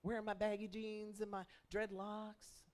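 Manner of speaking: a hint of the grown-up young man recalling the day; young man's future video. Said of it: "And he says".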